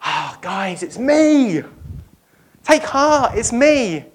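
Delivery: high, bright it's-me; cheery reveal. Pretend. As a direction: beam it out to old friends. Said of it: "you think he'd go".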